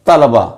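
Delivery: तलबा as ta-la-ba; correct pronunciation. Shown as a demonstration. Teacher sounding out the vowel marks, तलबा as ta-la-ba. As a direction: say तलबा with short a after ल, three syllables. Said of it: "लाम के ऊपर ज़बर".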